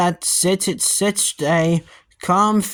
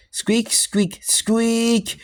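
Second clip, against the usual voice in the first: toy squeak; 5 semitones higher, much slower than usual. A narrator's reading. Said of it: "squeezing the toy".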